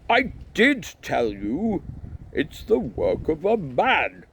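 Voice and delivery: slow, high, loud insistence; emphatic, exasperated address; insistent. A narrator's reading. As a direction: spell it out over a crowd. High priest insisting to noisy crowd.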